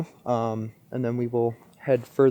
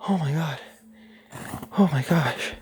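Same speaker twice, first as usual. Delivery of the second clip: whisper; 6 dB quieter than usual. Real, not acted. Recovering from the jump scare.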